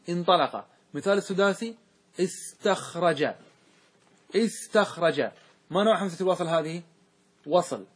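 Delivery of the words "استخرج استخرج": teacher modelling the verb استخرج slowly; drawn-out demo. Shown as a demonstration. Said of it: "demo word slowly".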